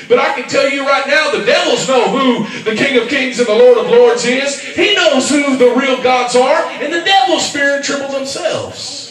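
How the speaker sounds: loud, emphatic declaration; preaching at full force. Acted. Pastor declaring to the church, loud and emphatic. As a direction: proclaim it over the congregation.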